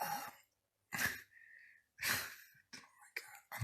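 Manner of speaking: fast exasperated whisper. Real, not acted. Vlogger recapping his terrible day, fast whisper. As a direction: whisper it out, overwhelmed.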